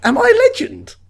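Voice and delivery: surprised self-doubt; self-effacing. Pretend. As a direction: ask it timidly. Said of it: "really self-effacing".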